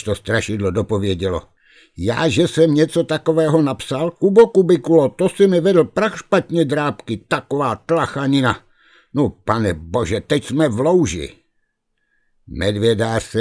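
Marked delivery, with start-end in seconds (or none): 2.0-11.3 higher and louder, peaking on the name; indignant ghost. Acted. The ghost protests to Kuba that he never wrote it, indignant. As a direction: protest in outraged disbelief. Ghost denies writing the letter.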